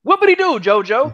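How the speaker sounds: exaggerated mock celebration. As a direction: rub it in even harder. Mocking a rival's small win.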